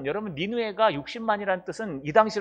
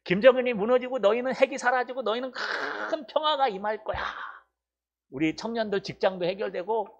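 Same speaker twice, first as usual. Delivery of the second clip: raised, bright-sounding preacher proclaiming good news; mock happy prophecy; 4 semitones higher than usual. Pastor mimics a prophet promising Seoul blessings, raised mock proclaiming. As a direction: play a crowd-pleasing prophet promising blessings. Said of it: "막 이런 거 선포하라고".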